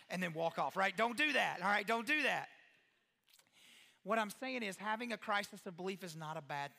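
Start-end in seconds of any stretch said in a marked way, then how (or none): 1.0-1.9 louder, stern "don't do that"; firm warning. Acted. Pastor warns parents, mock stern. 1.9-2.5 louder, stern "don't do that"; firm warning. Acted. Repeated warning to parents.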